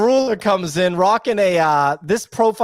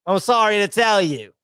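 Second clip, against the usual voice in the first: apologetic mate in a mock British accent; Mister Yellow; 2 semitones higher than usual. Host imitating Mister Yellow breaking bad news, put-on British accent. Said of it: "Mister Yellow's just like".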